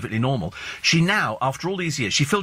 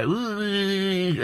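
peculiar Beckham noise; 6 semitones higher than usual. Retold or imitated. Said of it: "He might sit there and go".

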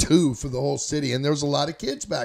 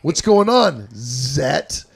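teasing greeting; 6 dB louder, much slower than usual. Retold or imitated. Schoolmates tease the narrator with his new nickname, loudly. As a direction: call it out, ribbing him.

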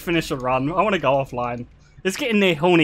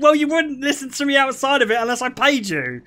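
laughing; 5 semitones higher than usual. Retold or imitated. Retelling therapy quip laughing.

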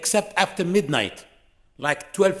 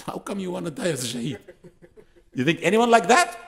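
mocking rebuke; 3 semitones higher than usual. Preacher scolding a boastful brother.

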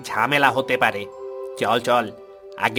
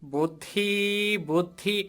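soft, halting searching for an idea; pondering; 3 semitones higher, 7 dB quieter than usual. Acted. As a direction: mull it over under your breath. Ghost thinking hard for an idea.

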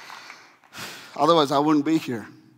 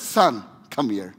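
tender father; 3 semitones lower, 5 dB louder than usual. Retold or imitated. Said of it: "this is how he says".

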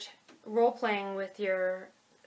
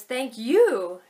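"you" in "thank you" louder and falling; stress on you; 2 semitones higher, 7 dB louder than usual. Shown as a demonstration. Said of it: "much more authentic way".

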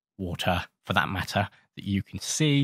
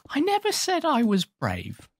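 high defensive protest. Real, not acted. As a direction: protest it much higher and slower. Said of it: "hey, hey".

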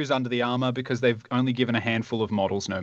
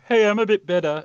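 higher, lightly put-on voice of some random guy; random dude; 9 semitones higher, 4 dB louder than usual. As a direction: pipe up as an uninvited nobody. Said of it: "like, a random dude just like".

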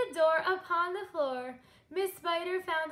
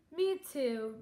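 sighing; 3 semitones lower than usual. Acted. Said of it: "Miss Spider sighed".

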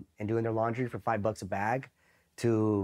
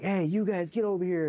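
higher-pitched imitation of calling out; mock MP summons; 8 semitones higher than usual. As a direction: imitate a cop hailing suspects over. MPs call the Marines over.

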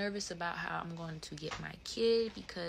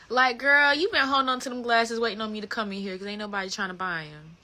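louder, higher teasing call-out; mock call-out; 4 semitones higher, 9 dB louder than usual. Teasing eye doctor staff, louder and higher. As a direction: call them out with a laugh.

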